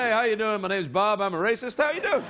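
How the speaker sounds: lightly voiced breezy bigot introducing himself; a hint of a cheery bigot saying hello; mock friendly racist. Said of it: "People don't go".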